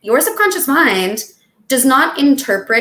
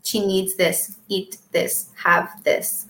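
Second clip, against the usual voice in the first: much softer, murmured commands; quiet urging mind; 2 semitones lower, 7 dB quieter, slower than usual. Pretend. The speaker playing the mind answering the craving, soft. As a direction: coax her like her own mind.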